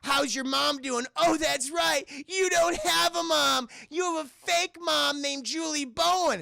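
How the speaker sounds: high, drawn-out mocking taunt; taunting bully. Acting out bully mocking foster daughter.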